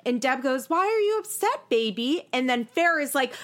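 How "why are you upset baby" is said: cooing mom voice. Retold or imitated. Mimics Deb's cooing.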